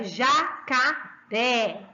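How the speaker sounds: jacaré slowly in syllables, RÉ strongest; slow ja, ca, RÉ with a strong open ending; stress on final syllable. Shown as a demonstration. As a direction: separate jacaré into beats and push the RÉ. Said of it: "O ré é a sílaba mais alta".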